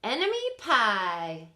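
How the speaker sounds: slow, proud dad naming the pie; satisfied. Acted. Dad proudly revealing the recipe to his son, satisfied. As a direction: savour the words like a secret. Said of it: "he said, satisfied".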